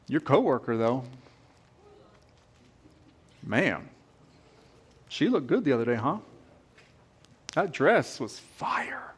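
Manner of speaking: enemy whispering lies into your ear; sly tempter. Pretend. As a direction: plant the seed slyly. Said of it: "He just starts whispering these things".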